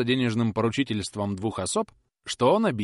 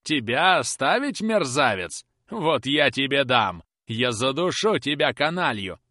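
slow, louder threatening snarl; menacing fury; 4 semitones higher, 4 dB louder, slower than usual. Acted. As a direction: crush him with each word. Carker strangling the boy. (Каркер душит мальчишку и грозит, медленно и громче)

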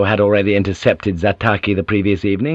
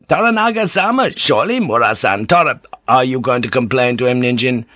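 raised-voice worried villagers trading words; anxious fishermen squabbling over taxes; lightly voiced peasant argument over taxes; village fishermen arguing; 3 semitones higher than usual. Villagers argue in character voices.

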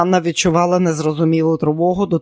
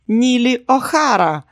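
triumphant; 7 semitones higher, 3 dB louder than usual. Acted. Eyes sparkled, new name.

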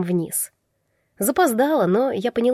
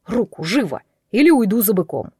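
sharp rebuke. A narrator's reading. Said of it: "он прикрикнул".

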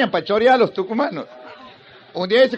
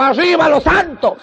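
fan cheer; 5 semitones higher, 3 dB louder, slower than usual. Retold or imitated.

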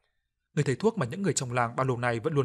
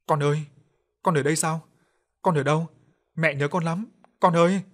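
louder, rising cry to her lost son; 4 semitones higher, 7 dB louder than usual. Acted. Grieving mother cries out for her dead son, rising loud. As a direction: call out for the child, voice climbing high. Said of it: "bà hét lên".

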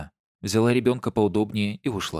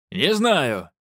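nervous bark; 5 semitones higher, 3 dB louder than usual. A narrator's reading. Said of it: "рявкнул оборотень нервно".

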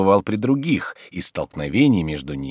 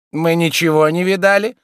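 women in unison; 12 semitones higher, 7 dB louder than usual. Acted. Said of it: "сказали обе женщины в один голос".

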